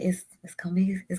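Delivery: whispered. Real, not acted. Grieving, voice dropping to whisper.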